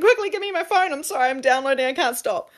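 husband told to hand over the phone, frantic and excited; urgent excitement. Retold or imitated. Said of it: "I was saying to my husband".

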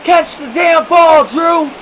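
exasperated, drawn-out yell; screaming at players. Real, not acted. Gamer ordering Drew to catch, screaming. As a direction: demand better from the outfield. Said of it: "We cannot keep screaming at our players".

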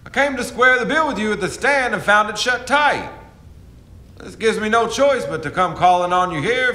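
bold riverboat captain calling at the door; lightly voiced boatman calling out; swaggering captain. Captain calling on Smithers at his door, swaggering.

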